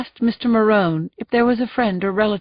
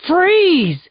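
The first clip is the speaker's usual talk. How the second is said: sharp, high, loud command; yell; 9 semitones higher, 4 dB louder than usual. Acted. Jacoby yelling at the charging suspect, loud. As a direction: stop him dead with it. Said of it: "Jacoby yelled".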